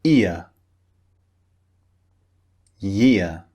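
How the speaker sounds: each word clearly modelled with pauses; model words for repeating. Shown as a demonstration. Teacher modelling practice words for students to repeat. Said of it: "listen and repeat after me".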